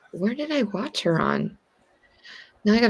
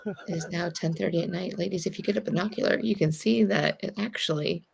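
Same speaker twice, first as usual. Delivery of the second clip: wildlife documentary voiceover; 6 dB quieter than usual. Pretend. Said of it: "can I do the voiceover?".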